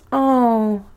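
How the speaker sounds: a drawn-out, consoling "oh"; soft sympathetic tone. Shown as a demonstration. A speaker shows comfort for someone sad, soft sympathetic tone. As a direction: put on gentle sympathy. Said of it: "put a soft tone on it".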